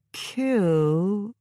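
robot voice, slow and doubtful; a machine that forgot the word; dubious robot voice. Acted. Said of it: "but it sounded dubious".

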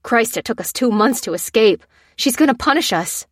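lightly voiced fearful whimper; a hint of frightened whining. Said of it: "the man whimpered".

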